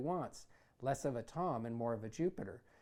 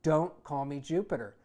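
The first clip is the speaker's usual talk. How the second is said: enraged; 7 dB louder than usual. Acted. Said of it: "in a rage of humiliation".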